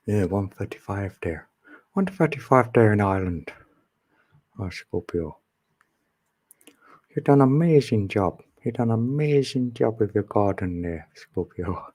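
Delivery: lightly put-on Irish accent; attempted Irish accent. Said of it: "I better learn the accent better".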